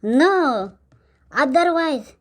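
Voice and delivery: very slow, drawn-out broken English; drunk broken English. Acted. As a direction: lecture the neighbour in slow, pompous bad English. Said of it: "ಯಾವ್ದಾದ್ರು English ನಾವು ಹೇಳ್ದಪ್ಪ".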